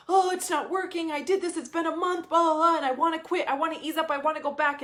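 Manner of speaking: mock the part of you that wants to quit; whiny quitting voice. A vlogger mimicking her own doubts, whiny and high. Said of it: "It looks like a hell yes, wait, hesitation".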